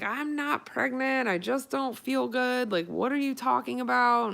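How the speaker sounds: mildly huffy denial; mock indignant protest. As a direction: brush him off, half annoyed. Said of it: "So I was mad".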